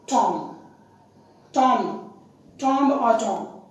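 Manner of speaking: TOM, said as spelt with a short open o; common mispronunciation of tomb. Shown as a demonstration. Teacher showing learners how tomb gets said, mispronounced as Tom. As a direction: say Tom for tomb, rhyming loosely with bomb. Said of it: "Such pronunciations are seen".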